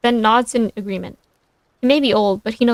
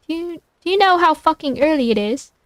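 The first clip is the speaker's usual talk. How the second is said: second try at an irritated British voice, higher; British accent; 4 semitones higher than usual. Acted. Louis woken early by a phone call, higher irritated British accent. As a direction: put on a British accent, raised in pitch. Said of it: "thickly accented and clear and irritated".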